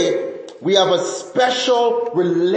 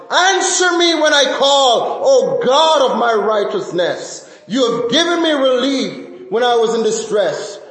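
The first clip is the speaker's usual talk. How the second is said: passionate plea. Shown as a demonstration. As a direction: plead as if in the darkest time. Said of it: "how would you cry out to God in exasperation".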